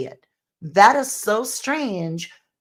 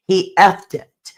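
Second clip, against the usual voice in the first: "He effed it." said slowly, leaning on "effed"; slow, stressed quote; 5 dB louder than usual. Shown as a demonstration. Narrator slowly stresses the key line for viewers. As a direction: spell out "He effed it." word by word. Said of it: "Just exactly that".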